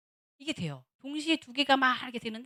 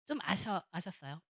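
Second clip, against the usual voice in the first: ordinary talk, nothing marked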